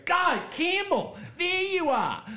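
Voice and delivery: high, urgent female colleague; frantic colleague. Retold or imitated. Salon colleague finding Campbell after the search, high and urgent. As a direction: rush the news out breathlessly. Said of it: "I go".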